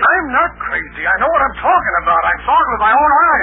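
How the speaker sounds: high, loud and pleading; frantic protest against disbelief; desperate insistence. Acted. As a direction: insist hard, nobody believes you. Insists he is not crazy.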